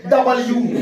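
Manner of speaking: "डब्ल्यू" opened out as dabal-yoo; split-up reading. Shown as a demonstration. Teacher demonstrating to students, split into dabal-yoo. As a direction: stretch "डब्ल्यू" into double plus you. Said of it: "पढ़ा जाता है डबल".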